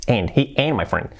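"ain't" said "ayn", T left off; dropped T. Shown as a demonstration. Teacher modelling for learners, "ain't" with silent T. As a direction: run "ain't" into "my" without its T. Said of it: "La T esa".

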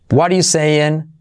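"What are you saying" with "What are" squeezed to "wadda"; slow, contracted "wadda you saying"; reduced form. Shown as a demonstration. Teacher demonstrates third form, "are" nearly swallowed. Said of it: "Bueno, cuatro, mira".

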